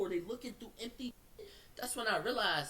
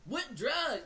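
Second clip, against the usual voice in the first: indignant denial; 3 semitones higher, 5 dB louder, much slower than usual. Retold or imitated. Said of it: "So I'm like".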